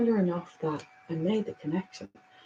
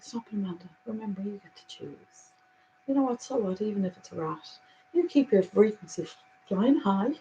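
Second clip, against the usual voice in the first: calm self-reassurance. Retold or imitated. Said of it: "and then it's like".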